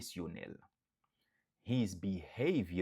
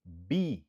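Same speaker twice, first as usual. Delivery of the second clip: Be said alone, firm; stressed syllable pulled out; 3 semitones lower, 4 dB louder than usual. Shown as a demonstration. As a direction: isolate the stressed be. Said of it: "Nou aksantye sou premye silab lan".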